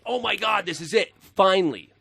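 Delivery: high, thrilled gasp of joy; can't believe the good news; excited. Retold or imitated. Retells his thrilled inner reaction.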